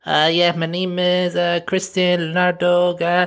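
high-pitched, halting put-on voice; hesitant young man role. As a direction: play a hesitant boy giving his name. Acts out the young Colombian boy.

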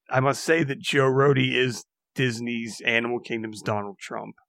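sinking to a hushed Donald Trump; mock-solemn, dropping away on Donald Trump; mock regret. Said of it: "it is with a regret".

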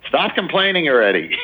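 put-on exasperated wife in a Jewish suburban accent. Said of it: "I gave her, like, a Jewish suburban accent".

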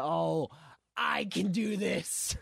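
sarcastic imitation of plucky resolve; mocking heroine. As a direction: imitate a deluded hero, drawn out. Mocking Captain Carter's confidence.

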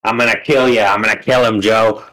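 mock death threat, tough-guy impression; Joey Diaz. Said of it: "it me, Joey Diaz".

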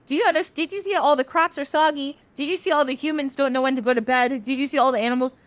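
high, insistent mock scolding; exasperated questioning. Olorun explains the damage to Sun, exasperated. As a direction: pile up the questions in playful exasperation.

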